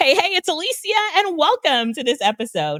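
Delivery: bright enthusiastic host voice. Recalling recording her AI voice, the speaker does a more enthusiastic voice. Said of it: "she's more enthusiastic".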